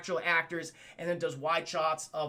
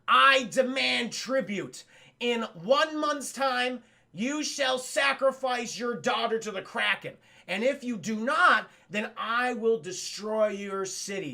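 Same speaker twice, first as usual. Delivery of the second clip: goddess decree; slower than usual. Retold or imitated. The possessed statue demands tribute, slow and solemn. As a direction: pronounce doom like an angry goddess.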